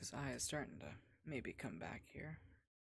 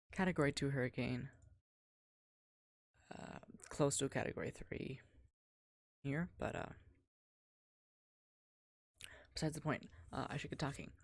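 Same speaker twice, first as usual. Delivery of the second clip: raised voice over the storm; shouting over wind; 5 dB louder than usual. Real, not acted. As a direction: call it out loud over the wind. Live hurricane report outdoors.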